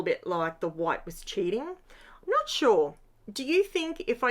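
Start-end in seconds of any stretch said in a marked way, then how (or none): 1.7-2.9 slow, high, playful uncertainty; playful doubt. Real, not acted. Crafter teases viewers about white being cheating, slow and high.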